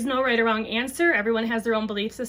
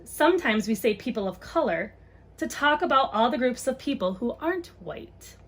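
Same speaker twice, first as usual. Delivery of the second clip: gentle picture-book read-aloud; reading to children. Acted. Mom reads a book on race to viewers, storytime voice.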